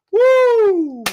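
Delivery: high, loud laughing woo; excited whoop. Real, not acted. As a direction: cheer through a laugh. Laughing hype shout.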